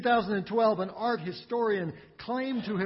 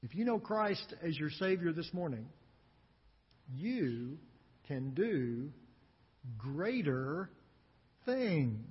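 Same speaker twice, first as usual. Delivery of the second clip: hushed; 5 semitones lower, 6 dB quieter than usual. Real, not acted. Pastor softly applies verse to listeners.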